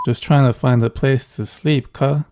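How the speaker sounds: tired street voice, hammed up; mock Ebonics. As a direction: play a worn-out traveler, slangy and loud. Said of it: "Sorry, sorry. It's the first thing that came to mind".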